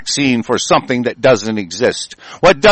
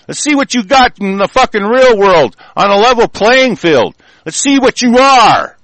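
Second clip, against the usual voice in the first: high-pitched, emphatic threats; angry tirade; 5 semitones higher than usual. Real, not acted. Speaker telling off the monarchs, real angry tirade. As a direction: lay into them, pitch pushed up.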